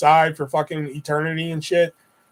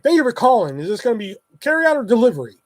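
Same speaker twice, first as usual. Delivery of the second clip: higher, irritated customer-service script; pissed-off phone greeting; 3 semitones higher, faster than usual. Retold or imitated. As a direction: rattle off the greeting with mounting annoyance. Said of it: "now I'm pissed".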